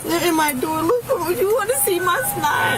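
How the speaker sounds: high, tearful and slow; sniffling through tears, pleading; snotty crying. Real, not acted. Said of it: "I have snot going into my mouth and it's disgusting".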